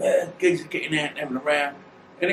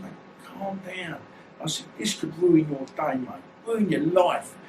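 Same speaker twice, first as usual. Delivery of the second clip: slow, soft, soothing plea; calming; 3 semitones higher, 3 dB quieter, slower than usual. Retold or imitated. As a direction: talk him down gently and slowly. Calming an angry driver.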